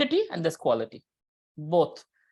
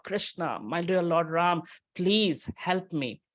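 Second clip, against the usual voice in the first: pleading call; slower than usual. Retold or imitated. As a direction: beg gently for help. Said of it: "we're really calling out".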